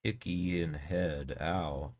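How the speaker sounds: words round a bite of food; mouth full. Real, not acted. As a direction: talk through a mouthful, slowly. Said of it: "I'm talking with my mouth full".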